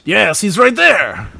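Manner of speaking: slow mock French insistence; drawn-out fake French; bad French accent. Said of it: "do a really bad French accent".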